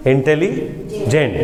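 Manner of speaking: इंटेलिजेंट again slowly with a falling end; slow falling repeat. Shown as a demonstration. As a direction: settle the word slowly. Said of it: "इसको देखिए". (इंटेलिजेंट को धीरे से, गिरती आवाज़ में)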